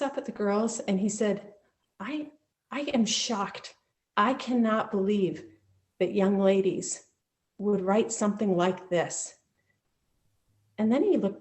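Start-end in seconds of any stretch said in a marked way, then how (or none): 2.0-9.4 slow, stunned principal voice; measured disbelief, word by word; shocked principal. Retold or imitated.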